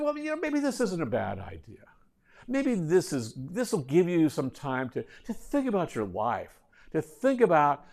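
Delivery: gently musing reassurance to a student; understated philosophical advice; mildly philosophic. Retold or imitated. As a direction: offer consolation as if pondering life. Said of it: "I would be philosophic".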